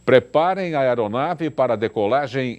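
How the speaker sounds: playful pilot announcement; a hint of a pilot addressing crew; pilot cockpit headset. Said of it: "Aqui é o comandante Arruda". (apresentador brinca de comandante falando à tripulação)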